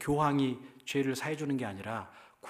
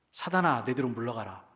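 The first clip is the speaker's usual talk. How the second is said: stern rebuke; 4 dB louder than usual. Acted. Jesus rebukes Peter, quoted again.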